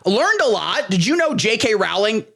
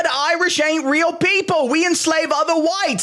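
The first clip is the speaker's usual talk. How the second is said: hammed-up British accent, pitched higher; a cartoonish Yorkshire Brit, dripping with clichés; over-the-top British accent played for laughs; 8 semitones higher than usual. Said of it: "I just did a flawless British accent".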